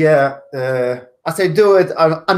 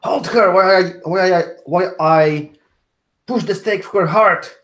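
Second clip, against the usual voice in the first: lightly raised, urgent shout; mock shout. Alric to Amanda while staking the vampire, mild shout. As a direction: shout an order under pressure, held back a little. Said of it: "Alric shouts to Amanda".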